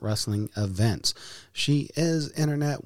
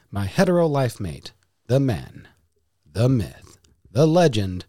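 building louder, announcer-style; grand wrestling-style introduction getting louder; hype announcer build; 5 dB louder than usual. Acted. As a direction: pump up the crowd like a ring announcer. Hyping up co-host introduction.

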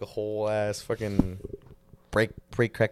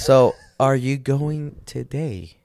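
slow, loud bro drawl; frat bro; 7 dB louder, much slower than usual. Acted. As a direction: stretch it out like a gym bro. Friends joking in gym chat.

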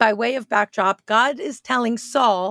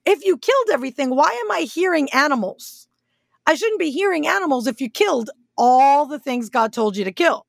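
mocking tone; 3 semitones higher, faster than usual. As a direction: needle him with sarcasm, fast. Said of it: "in a mocking tone".

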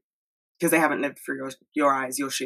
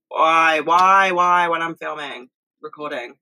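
louder, exasperated why; fed-up louder complaint; exasperated outburst; 4 dB louder, slower than usual. Real, not acted. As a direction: cry out at the noise overhead. Helicopter interrupts her filming.

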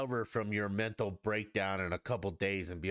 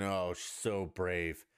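slow, drawn-out sarcastic sneer; mocking; 4 semitones lower, much slower than usual. Scolding people who praise the athlete, slow sarcastic mimicry. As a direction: stretch it out with contempt, lower and slower. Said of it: "shame on all of you for saying".

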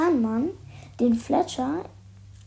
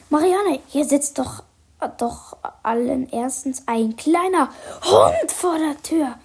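raised voice calling into the house; calling inside; 3 semitones higher, 4 dB louder than usual. Acted. Accomplice calls to Marianne inside the house. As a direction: call it back through the door. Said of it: "rief er ins Hausinnere".

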